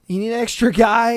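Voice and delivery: quick, lightly hammed-up offer; imitated eager volunteer. Guy offering himself as an extra, mock-eager. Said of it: "He was just like".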